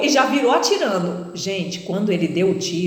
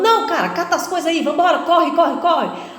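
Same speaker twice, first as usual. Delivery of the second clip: high, fast urgent orders; hurried robber; 7 semitones higher than usual. Retold or imitated. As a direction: rush the partner out. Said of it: "E outro". (bandido apressado, rápido e agudo)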